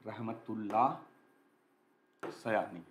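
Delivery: low, slow "Rahmatullah ... Sayani" with a long gap between words; slow dictation. Shown as a demonstration. Teacher dictating the answer's name to students, slow and broken up. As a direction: spell out "Rahmatullah ... Sayani" word by word, softly. Repeats name slowly while writing.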